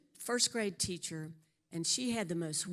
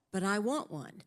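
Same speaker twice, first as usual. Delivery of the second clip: mild mock pleading, wanting the car; a lightly voiced husband whining for a car; 2 semitones higher than usual. Husband to wife, a hint of pleading want. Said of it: "that went like this".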